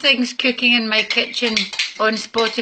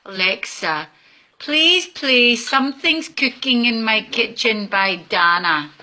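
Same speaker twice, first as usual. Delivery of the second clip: forced politeness. Real, not acted. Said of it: "I'm gonna be nice".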